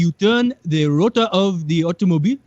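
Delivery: put-on proud inventor in a Nigerian accent; a grand Nigerian inventor boasting.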